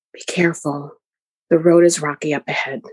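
lightly voiced father warning her of rough ground; gentle warning. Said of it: "and he warns".

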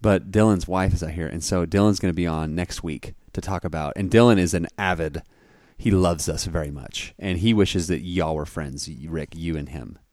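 hushed, soft voice; whispering. Real, not acted. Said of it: "there's sleeping children".

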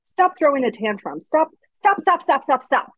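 high, rising string of stops; mock exasperated parent repeating stop; scolding parent. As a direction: imitate a parent nagging a child. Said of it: "it's like".

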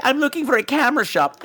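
put-on high, stilted girl voice; dubbed heroine. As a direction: mimic a badly dubbed film girl.

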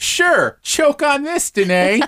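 high, slow sugary taunt; mock sweet villain. S0 voicing Ida mockingly.

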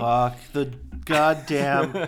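slow, lightly put-on villain accent; hint of a goofy German goon; mock nihilist accent. Hosts mocking the movie's goons, slow mock accent. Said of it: "the way that they were speaking".

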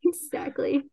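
giggling yes, exactly; laughing agreement. Real, not acted. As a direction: laugh breaking into a breathy exactly. Laughing at host's joke.

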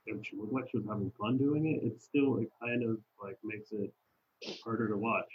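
muffled, boomy mic sound; inside a fishbowl. Real, not acted. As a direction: voice like through a fishbowl. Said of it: "it sounds like you're in a fishbowl".

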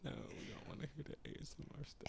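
fast whisper; quick hushed whisper. Pretend. Whispering back in ASMR bit.

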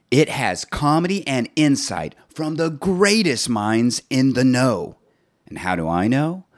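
slow, deliberate podcast ad read; promo read. Acted. Host reads a plug for another podcast. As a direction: sell the other show like a radio spot.

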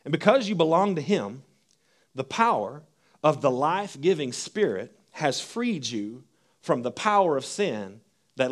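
measured reading of Romans to the congregation; scripture reading. Acted. Reads Romans aloud.

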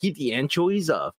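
a hint of a laid-back kid; carefree kid Mikey. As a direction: play a chill skater kid. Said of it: "He's like".

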